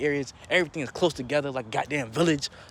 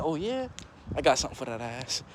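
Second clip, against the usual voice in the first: mimicking the killer's drawl. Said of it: "Yeah, he said".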